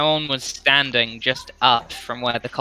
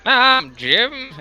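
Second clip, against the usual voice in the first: small high voice; 11 semitones higher, 3 dB louder than usual. Acted. GM voices the little Jim.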